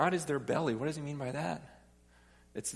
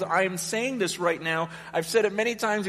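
higher, building in urgency as Paul; anguished insistence; 5 semitones higher than usual. Acted. Preacher as Paul warning the church once more, anguished insistence. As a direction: insist through acted distress. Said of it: "I'm crying at the same time".

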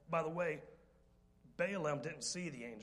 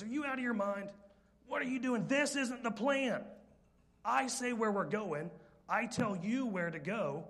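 furious Balaam; 6 semitones higher, 5 dB louder than usual. Retold or imitated. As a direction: lose it at the donkey. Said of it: "He says".

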